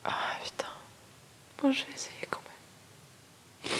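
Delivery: sniffling whisper after tears; pulling himself together, sniffling; after crying. Real, not acted. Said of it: "j'aime pas parler quand je renifle". (après les pleurs, en reniflant)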